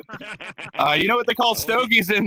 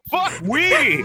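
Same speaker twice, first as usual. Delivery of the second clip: scream; 10 semitones higher than usual. Acted. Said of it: "I want everyone to scream".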